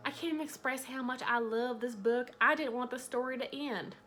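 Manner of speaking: lightly put-on Southern US accent; mock Southern accent, lightly done. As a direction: read the blurb with a hint of Southern twang. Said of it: "I'm giving her an accent".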